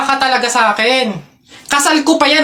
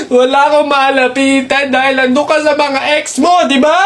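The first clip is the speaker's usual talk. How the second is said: tearful shouted confrontation; 3 semitones higher than usual. Acted. Acted lovers' quarrel, answering back.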